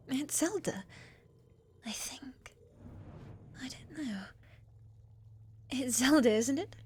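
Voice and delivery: small, hushed, doubtful voice; hesitant near-murmur; uncertain. Acted. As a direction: fade away as you doubt your own name. Unsure of her own name.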